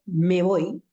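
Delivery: "me voy" linked into one word, no break; me voy como una sola palabra. Shown as a demonstration. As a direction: say "me voy" in one single breath. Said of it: "es como si hubiese producido una sola palabra". ("me voy" sin pausa, como una sola palabra)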